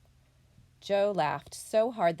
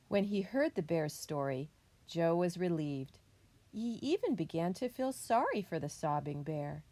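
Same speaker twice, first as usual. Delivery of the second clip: put-on story reading to children. A narrator's reading. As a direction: tell it clearly to young listeners. Reads picture book to students.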